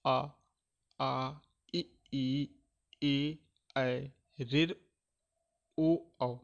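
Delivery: slow classroom vowel drill; vowel demo. Shown as a demonstration. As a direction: sound out आ ए ऐ ओ clearly like a teacher. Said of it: "जैसे".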